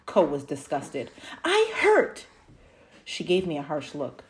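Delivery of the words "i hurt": put-on high, loud childish whine; whiny cry. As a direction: wail it like a hurting child. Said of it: "I whined".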